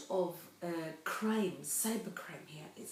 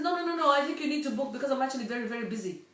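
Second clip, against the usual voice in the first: insistent salesman; 5 semitones higher, 3 dB louder, faster than usual. Retold or imitated. Instructor voiced insisting.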